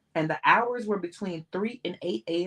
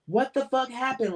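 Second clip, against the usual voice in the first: higher, raw yell; screaming; 6 semitones higher than usual. A narrator's reading. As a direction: scream it out in shock. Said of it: "Lamont screamed".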